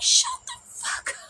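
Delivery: very high, harsh mocking shriek of the mother; mother snapping at her teen to shut up; mom snapping back. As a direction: bite back hard as the mom. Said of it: "And she's like".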